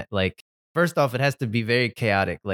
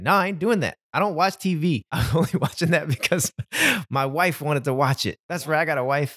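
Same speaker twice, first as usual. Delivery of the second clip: raised, cocky brush-off; smug, pitched-up dismissal; high cocky voice; 3 semitones higher than usual. Retold or imitated. The streamer brushing off fans.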